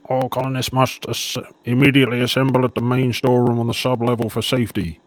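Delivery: lightly voiced automated safety announcement; a hint of station tannoy; intercom announcement. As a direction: read it out like a repeated intercom message. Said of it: "that last message repeats again".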